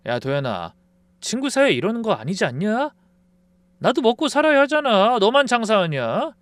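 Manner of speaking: high, self-pitying complaint; guilt-trip him; whiny excuse. Acted. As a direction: friend justifying himself, whining. Friend making excuses.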